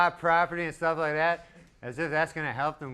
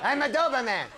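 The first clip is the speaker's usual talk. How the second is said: a hint of a wistful has-been, pitched up; faded has-been dog; 9 semitones higher, faster than usual. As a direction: say it like a washed-up star on a park bench. Washed-up Doberman speaking.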